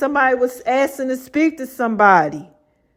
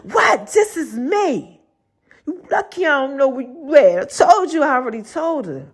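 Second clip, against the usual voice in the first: the nurse talking back; 2 semitones higher than usual. Retold or imitated. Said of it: "She was like".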